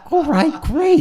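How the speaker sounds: high, loud put-on delight; hammed-up retold "great"; mock enthusiasm. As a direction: pitch it way up, overdoing the cheer. Mock enthusiasm at dull assignment.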